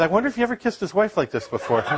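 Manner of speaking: remembering the long kiss, wondering aloud while laughing; laughing aside. Retold or imitated. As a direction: giggle through the thought. Inner thought during the kiss.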